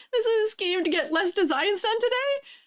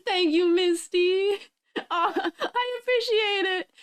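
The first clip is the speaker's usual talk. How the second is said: slow, choked-up gratitude; thanking a gifter through real happy tears; slow teary thanks; slower than usual. Real, not acted. Streamer thanks Misty for a gifted sub, slow and teary. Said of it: "I'm crying inky tears".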